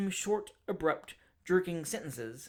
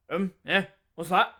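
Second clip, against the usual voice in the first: 1 gruff question; 7 dB louder than usual. Acted. Stranger startled, barks question.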